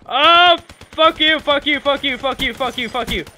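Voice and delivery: loud high then fading; angry cursing. Real, not acted. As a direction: start shouting, trail off. Cursing at enemy repeatedly.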